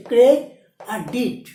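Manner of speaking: ক্রেডিট split into ক্রে and ডিট with a pause; syllable by syllable. Shown as a demonstration. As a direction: sound out ক্রে, then ডিট, separately. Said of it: "বেশি উচ্চারণ হচ্ছে". (ক্রে আর ডিট আলাদা করে উচ্চারণ)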